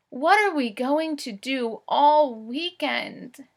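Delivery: slow storybook read-aloud; reading to children. Acted. Teacher reads Henry and Mudge to the class. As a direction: read each word clearly for young listeners.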